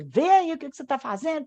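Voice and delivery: quick, demonstrative scolding command; brusque order. Shown as a demonstration. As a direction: rattle it off as a curt order. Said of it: "Se eu falar assim".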